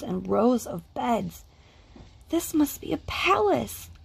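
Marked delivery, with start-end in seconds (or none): 2.3-3.9 high, wonder-struck; awed gasp. A narrator's reading. Small bear in the store, gasping in awe. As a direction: breathe it out in amazement. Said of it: "Corduroy gasped".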